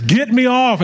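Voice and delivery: high, mock terrified yell to get off the ride; retold panicked scream. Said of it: "I'm screaming like a, out of my mind".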